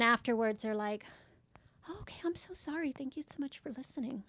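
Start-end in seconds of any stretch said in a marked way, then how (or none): 1.9-4.2 sheepish apology. Retold or imitated. Caller apologizes after venting.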